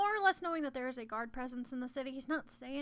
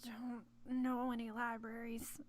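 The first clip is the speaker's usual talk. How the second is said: put-on Southern accent; 2 semitones lower, 7 dB quieter, slower than usual. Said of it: "Went Southern again".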